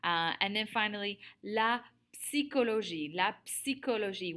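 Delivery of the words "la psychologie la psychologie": "psychologie" with the P audibly pronounced before the S; sounded P. Shown as a demonstration. Teacher models French vocabulary for class, P sounded in "psychologie". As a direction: say the P at the start of "psychologie". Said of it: "We're actually pronouncing the P".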